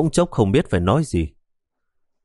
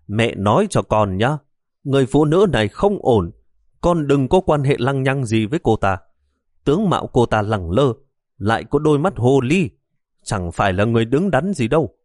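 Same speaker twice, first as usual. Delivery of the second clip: angry warning; 3 semitones higher than usual. Acted. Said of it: "bà liền tức giận".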